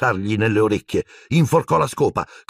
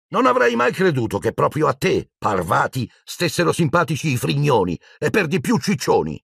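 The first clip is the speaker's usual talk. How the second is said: put-on higher, scornful girl voice; sneering jibe; 6 semitones higher than usual. Pansy sneers at Parvati for liking crybabies. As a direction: sneer with mock surprise.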